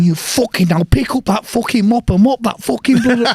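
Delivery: loud, high barked order to mop; retold angry order. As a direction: bark the order at the bleeding man. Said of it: "I'm going".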